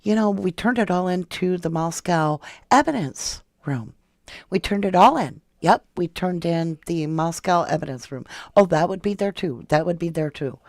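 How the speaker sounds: lightly hammed-up clueless officer; mocking Payne. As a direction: parody him repeating the same excuse. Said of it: "he just kept saying".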